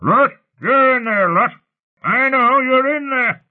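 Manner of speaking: high, loud, drawn-out angry yelling; angry bellow. A narrator's reading. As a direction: bellow it slowly from outside the door. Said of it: "L H's familiar angry bellow".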